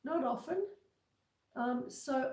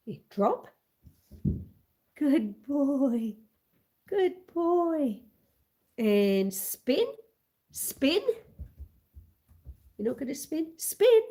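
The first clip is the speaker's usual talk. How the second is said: training commands; 3 semitones higher, 6 dB louder, slower than usual. Real, not acted. Owner putting her puppy through his tricks, loud commands. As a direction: call out the tricks to the dog.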